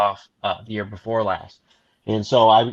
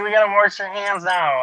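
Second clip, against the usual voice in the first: retold parental alarm; 7 semitones higher, 4 dB louder than usual. Alarmed parent continues retold scolding.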